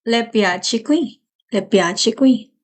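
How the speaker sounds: slow, careful Italian; teacher modelling Italian slowly; slow model phrase. Shown as a demonstration. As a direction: say it slowly for the class. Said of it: "you would say".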